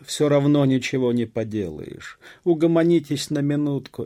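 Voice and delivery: high, loud plea for calm; shouted appeal. A narrator's reading. Village elder calms the peasants, shouting. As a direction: shout over the crowd to settle them. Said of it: "крикнул староста".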